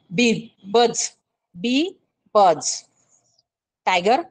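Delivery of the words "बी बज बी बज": bee buzz. Shown as a demonstration.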